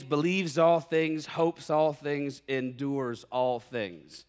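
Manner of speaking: scripture reading. Real, not acted. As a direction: read the verse with reverence. Reads scripture verse aloud.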